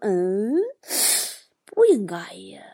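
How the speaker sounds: 气声低语自言自语; 挠着头轻声嘀咕; 小声嘀咕. Retold or imitated. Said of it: "自己小声嘀咕说". (大哥挠头小声嘀咕)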